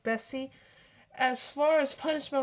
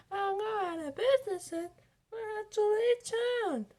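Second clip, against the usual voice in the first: crying out; 9 semitones higher than usual. Acted. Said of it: "Flo cried".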